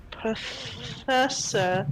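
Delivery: very slow, syllable by syllable; halting foreign word. Acted. Girl repeats the professor's title back to her, very slowly in pieces. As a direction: drag out PROFESSOR, holding the middle sounds. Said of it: "she, she goes".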